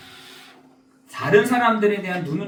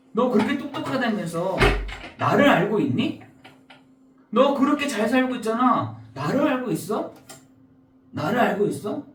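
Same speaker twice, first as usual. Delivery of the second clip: God questioning; 4 semitones higher than usual. Acted. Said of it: "이렇게 하나님이 다시 우리에게 질문을".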